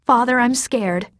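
put-on a girl begging her father in fear; scared child. Frightened daughter pleading with her father. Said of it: "Terry said".

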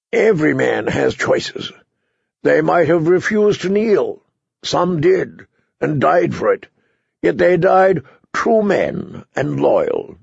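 lightly voiced hard-liner arguing back; unyielding knight. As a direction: press each point home. Sir Axel answers Davos.

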